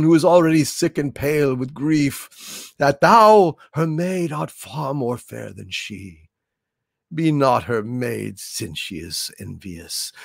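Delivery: Shakespearean Romeo, swelling and hushing; theatrical verse recital. Acted. Host playing Romeo beneath the balcony, theatrical. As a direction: recite as a lovestruck stage Romeo.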